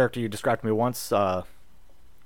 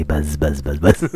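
buzzing; 8 semitones lower, much slower than usual. Pretend. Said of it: "talking in your ears".

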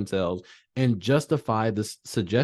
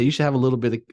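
tempting devil voice; 3 semitones higher, much faster than usual. Retold or imitated. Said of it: "So they say".

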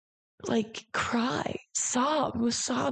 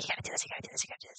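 urgent whisper, voiceless and much softer; anxious ego whisper; 11 dB quieter, much faster than usual. Retold or imitated. Her anxious ego pushing her, in a whisper. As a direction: hiss it like a nagging inner worry. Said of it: "It's always whispering".

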